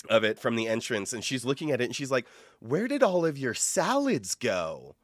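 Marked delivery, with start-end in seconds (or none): 2.6-5.0 clueless customer. Retold or imitated. Coworker imitating a clueless customer, mock bewildered. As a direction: whine it slowly like a baffled shopper.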